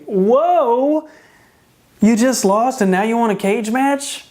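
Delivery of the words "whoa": surprised whoa. Real, not acted. Reacts to cage match request.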